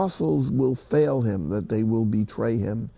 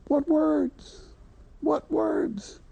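amazed exclamation; 3 dB quieter, much slower than usual. Real, not acted. Preacher marvels at the words.

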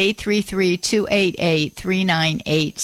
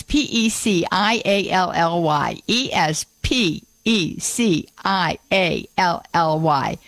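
deliberate pause after each letter; slow spelling; slower than usual. Shown as a demonstration. Radio host spelling her pet-peeve word for listeners, slow spelling.

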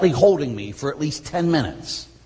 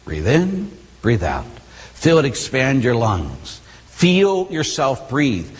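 slow, calm breathing cues; guided breathing; slower than usual. Shown as a demonstration. Priest guiding congregation in breathing, calm and slow. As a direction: lead the room through slow breaths. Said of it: "leads breathing at sermon start".

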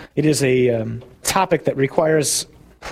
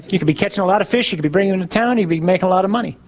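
quick, higher-pitched list of selling points; eager persuasion; 3 semitones higher, much faster than usual. Acted. German visitor urging an idle Irish fisherman to work, eager persuasion. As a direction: rattle off the benefits, pressing the case.

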